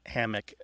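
hammock as HAM-uck with a weak ending; first-syllable stress. Shown as a demonstration. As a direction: let the second syllable of hammock shrink. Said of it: "if you stress the first syllable".

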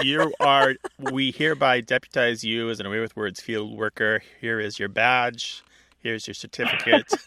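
playfully ceremonial deputizing; mock official proclamation. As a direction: pretend to swear in a new field worker. Host playfully deputizes the caller.

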